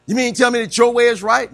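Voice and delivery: mad objector. Acted. Preacher mimics people mad about Jesus, indignant. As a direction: challenge it like an offended listener. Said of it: "boy, people get mad".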